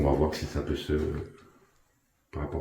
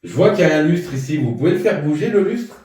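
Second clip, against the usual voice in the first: raised, higher questioning call; calling out to spirits; 8 semitones higher, 8 dB louder than usual. Real, not acted. Ghost hunter addressing an unseen presence, calling out. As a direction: project questions into the empty room.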